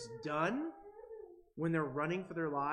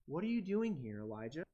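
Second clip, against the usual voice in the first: gentle question. Shown as a demonstration. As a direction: ask it tenderly, inviting reflection. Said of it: "This is a gentle question".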